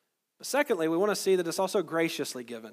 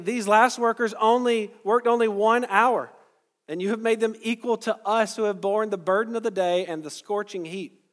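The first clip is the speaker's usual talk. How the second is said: indignant complaint; 5 semitones higher, 6 dB louder than usual. Acted. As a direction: protest it as if cheated of a full day's pay. Grumbling workers complain to master.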